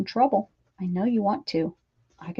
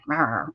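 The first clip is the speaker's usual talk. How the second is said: mock growl; 6 semitones lower than usual. Shown as a demonstration. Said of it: "you have to grab her".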